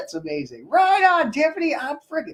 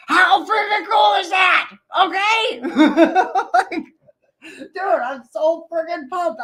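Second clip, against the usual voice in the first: higher, louder and slower, hammering the hype; emphatic excited shout; 7 semitones higher, 4 dB louder, slower than usual. Real, not acted. To viewers not hitting hearts, an emphatic excited shout. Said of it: "I'm obviously not emphasizing enough".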